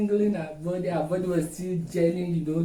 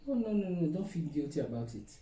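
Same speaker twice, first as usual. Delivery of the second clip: reassuring; 8 dB quieter than usual. Retold or imitated. Retelling his soft reassurance.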